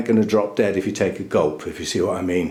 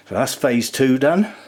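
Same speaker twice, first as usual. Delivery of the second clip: a bit breathless after work; out of breath; 3 semitones higher than usual. Real, not acted. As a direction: talk while catching breath. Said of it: "I'm out of breath doing all that".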